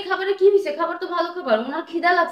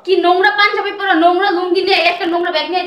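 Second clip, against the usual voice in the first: loud, higher scornful rant; angry rant; 3 semitones higher, 5 dB louder than usual. Acted. Wife ranting to her husband about his father's dirty clothes, loud and scornful. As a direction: hurl the insults at him.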